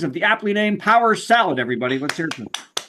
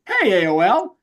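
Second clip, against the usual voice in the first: higher-pitched, incredulous plea; mock wounded appeal; 6 semitones higher than usual. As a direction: plead like you've been forgotten by an old friend. Acted appeal to his email provider.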